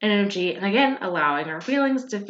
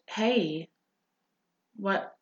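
gentle greeting. Shown as a demonstration. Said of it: "greet the negative emotion with".

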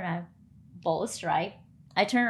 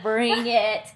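bring it; 3 semitones higher, 6 dB louder than usual. Retold or imitated. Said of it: "I'm like".

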